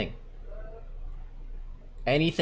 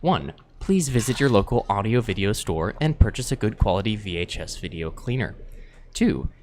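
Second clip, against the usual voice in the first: calming reading voice. Shown as a demonstration. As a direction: read it to lull listeners to sleep. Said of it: "basic documentation in a really calming way".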